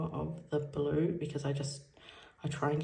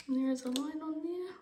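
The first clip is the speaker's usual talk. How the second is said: high and loud, near tears; happy shock spilling out; overjoyed; 10 semitones higher, 8 dB louder than usual. Real, not acted. Overjoyed, tearing up.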